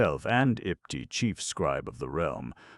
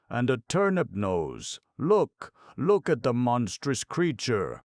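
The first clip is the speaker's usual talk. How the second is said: higher, louder, slow astonished yell; shrill yell; 9 semitones higher, 6 dB louder than usual. Acted. Chief scribe spotting corn ears, shrill yell. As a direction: shout it out in shock. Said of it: "yelled Ipti shrilly".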